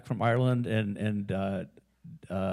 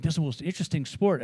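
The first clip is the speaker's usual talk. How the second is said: raised-pitch quote of an enthusiastic friend; excited retelling; 5 semitones higher, faster than usual. Retold or imitated. Friend raves about hurling after Ireland trip, imitated excitement.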